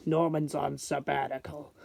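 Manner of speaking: lightly voiced villain line; a hint of a comic-book villain; Norman Osborn impression. Reviewer slips in a film villain's line for viewers, lightly done impression. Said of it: "that's my Norman Osborn impression".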